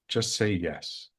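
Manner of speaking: slow, lightly voiced inner guide; angel's voice. Angel to the hesitating husband, inner voice. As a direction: imitate a calm directive from within, slowly. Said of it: "heard my angel's voice in the back of my head".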